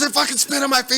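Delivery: high, loud mimicked complaint; mock-panicked cry; outraged yell. Storyteller mimicking player spat on by snake, high outraged yell.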